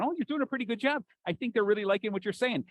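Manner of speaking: quick, lightly acted cheering voice; encouraging inner voice. A voice in his head praises his speaking, lightly acted encouragement. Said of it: "a voice in my head right now going".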